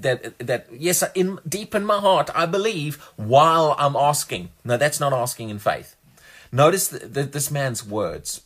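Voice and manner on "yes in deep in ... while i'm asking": mock passive believer. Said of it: "passive faith in their heart".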